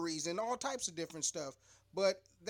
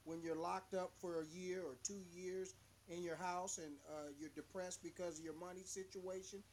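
faint, distant mic; far away; 10 dB quieter than usual. Real, not acted. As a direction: sounds like through a wall. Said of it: "Oh, you sound so far away".

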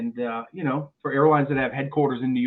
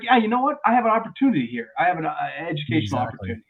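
mock cheerful; 3 semitones higher, 3 dB louder, faster than usual. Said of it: "But I was like".

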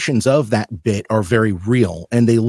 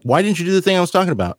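wife complaining; 7 semitones higher, faster than usual. Retold or imitated. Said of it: "she'll be like".

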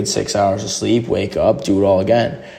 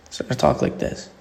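low, hushed, close to the glass; leaning-in hush; 6 semitones lower, 4 dB quieter than usual. Shown as a demonstration. To Chipotle workers, leaning on the glass, hushed voice. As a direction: drop to a hush as if leaning over the counter. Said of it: "talking like this".

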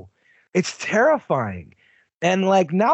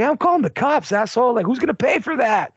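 angry party host; 3 semitones higher than usual. Retold or imitated. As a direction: play the outraged host, pitched up. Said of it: "He's like".

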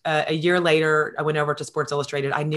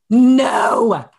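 surprised disbelief; 8 semitones higher, 8 dB louder than usual. Real, not acted. Told friend is lunching today.

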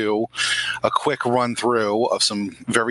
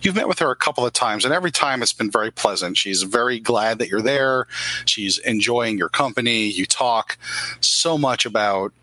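calm storyteller scene-setting; story narration. Acted. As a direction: set the scene for the player.

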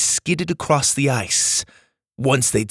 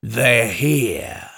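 feral snarling. Acted. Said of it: "he snarled".

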